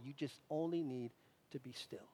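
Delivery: soft and hushed, dropping almost to nothing on "to be still"; hushed reassurance. Retold or imitated. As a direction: say "to be still" gently, letting it fade away. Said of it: "Moses' calm instruction, retold twice".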